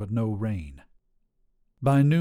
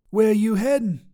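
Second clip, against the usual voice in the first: higher, bold trucker woman voice; tough lady trucker; 11 semitones higher, 6 dB louder than usual. Acted. Trucker Sharon sizing up a hitchhiker, brash and higher. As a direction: call out like a brash long-haul trucker.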